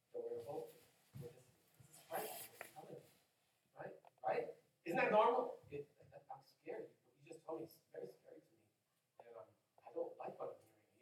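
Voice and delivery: scared disciple. Pretend. Voicing a frightened disciple.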